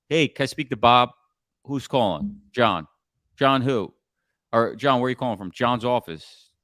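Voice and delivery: relaxed, like calling a friend; casual, friendly. Shown as a demonstration. Caller chatting with gatekeeper, casual and easy. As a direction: breeze past the gatekeeper. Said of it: "like you're calling your friend".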